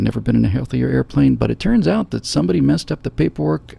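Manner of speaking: calm airline captain announcement; reassuring pilot on the intercom. Pretend. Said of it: "I immediately go into my pilot voice".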